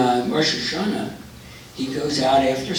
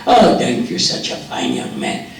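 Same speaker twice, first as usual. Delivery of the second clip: put-on grateful old man, Jewish accent; effusive thanks in a Jewish accent; 4 dB louder than usual. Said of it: "drop the Jewish accent".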